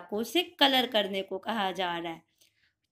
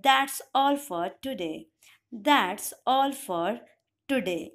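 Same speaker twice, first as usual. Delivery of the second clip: slow model sentence; much slower than usual. Shown as a demonstration. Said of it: "इसकी English होती है".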